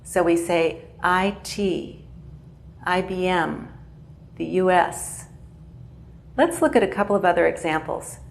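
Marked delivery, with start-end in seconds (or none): 1.0-5.3 slow letters, weight on T, M and S; stress on last initial. Shown as a demonstration. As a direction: spell out "I T", "I B M", "U S", stressing the final letter. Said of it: "the last initial has the most stress".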